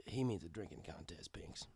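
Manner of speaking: hushed whisper aside. A narrator's reading. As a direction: whisper it so only Pinks hears. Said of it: "I whispered to her".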